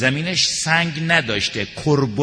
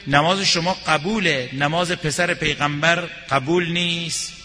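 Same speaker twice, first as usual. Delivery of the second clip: retold cry. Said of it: "فریاد زد که".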